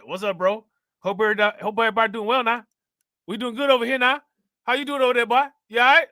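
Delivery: put-on friendly old uncle calling across the room. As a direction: play the chatty uncle checking in. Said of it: "That's how my uncle be talking".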